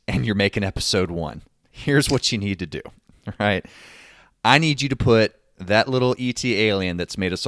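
lightly acted big-shot pushing a deal; Steve. Steve tells Lucas what to put in Episode One, pushy. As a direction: punch the openings, then lay down the demand firmly. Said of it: "Steve comes back and is like".

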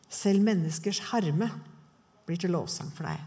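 "Selv menneskers herme" drawn out, with "Selv" lifted and rising; savouring the verse, slow and rising on "Selv"; slow, weighty repeat. Shown as a demonstration. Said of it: "repeated verse, emphasized".

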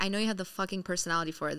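a hint of a fast, blunt boss. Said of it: "This is how she talks, like, very bluntly".

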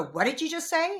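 high, sharp challenge to her partner; indignant question. Retold or imitated. Imitating her challenge to her partner, high and pointed. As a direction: demand he repeat it. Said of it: "I'll go".

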